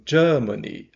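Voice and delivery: "Germany" in British English, with a long AH and no R; British English: "Germany" with a drawn-out ER and no R; British-accent Germany. Shown as a demonstration. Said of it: "ah, prolongado".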